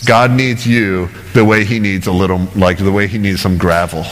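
low, dry mock agreement; mildly sarcastic. John the Baptist putting down the Pharisees, mildly sarcastic. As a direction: lightly insult them with a deadpan concession. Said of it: "almost sarcastically insulting these guys".

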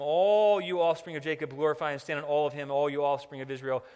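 loud, ringing scripture proclamation; forceful pulpit reading; impassioned preaching. Acted. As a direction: proclaim the psalm to the congregation.

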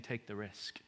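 very soft, low nudge; hushed, as if in your ear; whispered urging. Acted. God nudges others to take the risk, hushed. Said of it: "he's whispering in your ear".

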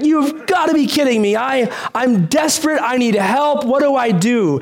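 a desperate plea, lightly acted; mock panic. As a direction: replay the terror on the cliff, half joking. Retold panic on the cliff.

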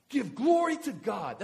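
loud, slow, stern order; commanding shout. Acted. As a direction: bellow it like an oath demand. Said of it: "That's like, on oath".

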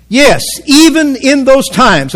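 "even" lifted high and drawn out; stress on EVEN. Real, not acted. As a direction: punch the word "even", slowly. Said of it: "I'm emphasizing this word on purpose".

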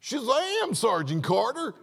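hammed-up yokel gasping in awe; hick amazement. Servant seeing the angel army, hammed-up goofy awe. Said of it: "and he says".

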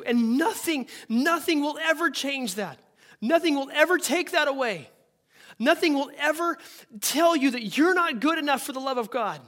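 preaching at full force. Acted. Preacher rousing the congregation that nothing separates them. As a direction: drive it home to the crowd.

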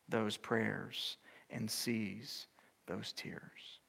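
slow, tender whisper. Acted. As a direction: whisper the comfort. Tender close, hushed.

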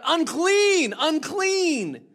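loud, high wailing cry; loud warning cry. Acted. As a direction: call it out so people keep away. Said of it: "and cry out".

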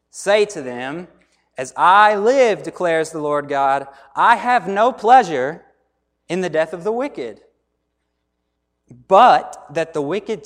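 scripture reading. Acted. Pastor reading Ezekiel thirty-three to the congregation, solemn reading. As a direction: proclaim the prophet's words slowly. Reads Ezekiel passage aloud.

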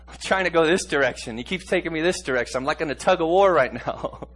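fervent preaching. Acted. Preacher telling church he's torn, raising voice.

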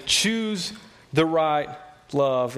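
each word drawn out slowly; slow emphatic quote. Shown as a demonstration. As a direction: lay weight on every word of the verse. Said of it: "John would say".

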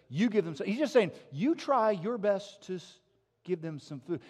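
loud, fast, driving sermon delivery; preaching at full force. Acted. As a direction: preach it out with rising energy.

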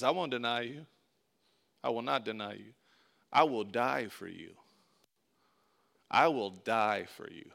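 soft, hushed vow; a quiet, earnest Peter swearing loyalty to Jesus. Acted. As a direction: promise it softly, with all your heart.

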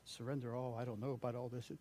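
half-muttered mock excuse of a reluctant worshipper; whiny doubter. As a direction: mumble the self-conscious excuses. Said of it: "But you reason".

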